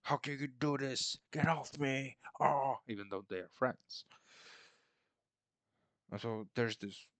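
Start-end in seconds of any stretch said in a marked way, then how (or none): 0.0-2.8 higher, louder hammed-up cry of protest; mock outraged princess. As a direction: overact a hurt, offended girl. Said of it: "She was like".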